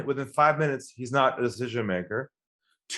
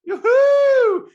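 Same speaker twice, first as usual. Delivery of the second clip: much higher, whooping with mock glee; hammed-up salesman cheering a lead; excited; 11 semitones higher, 4 dB louder, slower than usual. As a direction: celebrate the call like a giddy rookie. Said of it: "You're so excited you get that call".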